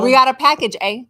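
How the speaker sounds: Canadian accent with a rising eh; bright Canadian accent, upbeat. Shown as a demonstration. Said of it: "Like that".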